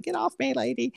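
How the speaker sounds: put-on high-pitched little kid protest; imitating annoyed kids. Young kids to their hugging mother, mock annoyance. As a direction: squirm away in a high kid voice. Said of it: "of course they're like".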